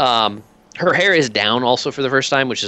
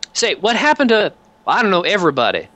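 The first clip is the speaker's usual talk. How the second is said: commander voice; 7 semitones higher than usual. Acted.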